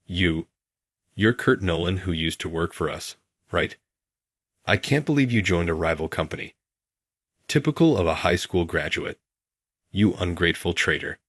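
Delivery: panting between words; breathless, catching his breath. Acted.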